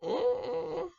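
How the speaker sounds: dismissive sass. Real, not acted. Dismissive reaction to boyfriend.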